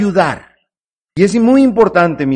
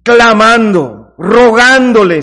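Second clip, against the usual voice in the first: slow pleading; 5 dB louder, slower than usual. Acted. Preacher acts out how to pray.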